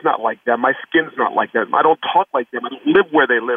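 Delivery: a hint of a hurt young boy begging for answers; child pleading.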